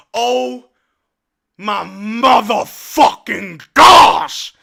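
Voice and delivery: slow, loud, stretched-out curse; emphatic disbelief. Real, not acted. Streamer stunned by the tying play, loud drawn-out disbelief. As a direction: drag out every word in amazement.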